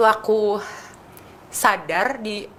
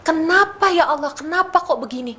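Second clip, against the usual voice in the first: anguished cry to God; 8 semitones higher, 3 dB louder than usual. Retold or imitated. Daughter retelling crying to her mother, anguished pleading. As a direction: cry out why as if breaking down.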